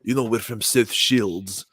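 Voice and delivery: slow mock Geordie ending in a laughing whisper; lightly hammed Geordie; Geordie accent. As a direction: put on a playful Geordie accent. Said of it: "the Geordie".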